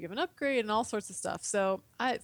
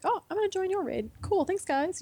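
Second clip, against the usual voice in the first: lightly acted chipper joiner, higher pitch; eager raider; 11 semitones higher, 4 dB louder than usual. Player joining a stranger's raid, lightly voiced eager. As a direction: pitch it up like a keen player hopping in.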